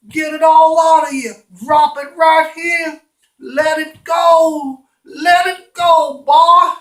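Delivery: high, loud, stretched-out urging; over-the-top dog walker cheering on his pet; coaxing dog owner. Acted. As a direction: egg the dog on with long, high shouts.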